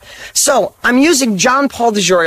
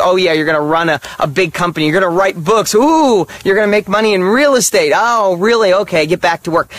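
mocking sarcasm. Coworkers dismissing a mechanic's aspirations, mocking sarcasm. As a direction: scoff at someone's big dreams.

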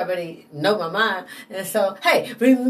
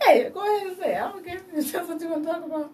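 voicing God; 8 semitones higher, 4 dB quieter, faster than usual. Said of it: "Some of the things God like".

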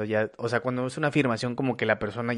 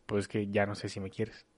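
much softer, lower doubting "ya no sé si me quieres"; 3 semitones lower, 11 dB quieter than usual. Shown as a demonstration. Partner voicing doubt about love, soft and low. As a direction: let the doubt sink the voice. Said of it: "O decir".

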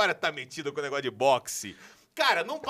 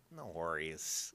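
put-on slow, soft No worries in English accent; 12 semitones lower, 14 dB quieter, much slower than usual. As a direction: drawl a friendly No worries. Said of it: "eles falam".

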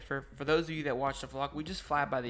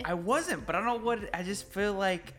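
stage fright; 5 semitones higher than usual. Real, not acted. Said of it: "I'm so nervous right now".

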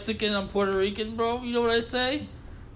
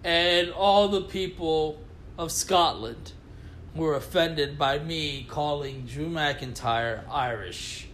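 slow, solemn press-statement apology; mock public apology; slower than usual. Co-host apologizing to Scotland, slow mock-solemn statement. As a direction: read it like a formal apology. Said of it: "That sounded sincere".

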